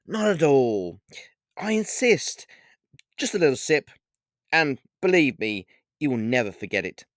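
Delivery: lightly voiced suave vampire; snooty vampire.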